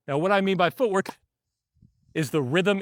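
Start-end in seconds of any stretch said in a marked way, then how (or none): none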